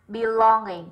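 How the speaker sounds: "Belonging" slowly, stressed on "long"; second-syllable stress. Shown as a demonstration. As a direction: lean on the middle of "Belonging". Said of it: "âm hai".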